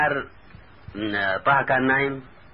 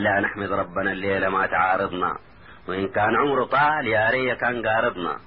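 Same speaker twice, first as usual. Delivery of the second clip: rhythmic narrative poem, rhyme by rhyme; verse recitation. A narrator's reading. Taha recounts his dream to his cousin, recited. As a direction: recite the tale in steady cadenced lines.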